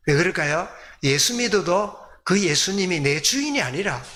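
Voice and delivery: ordinary talk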